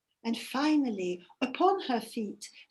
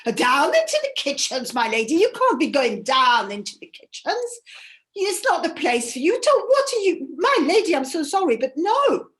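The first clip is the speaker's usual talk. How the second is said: flustered servant; 3 semitones higher, 6 dB louder than usual. Acted. Servant protests to goddess.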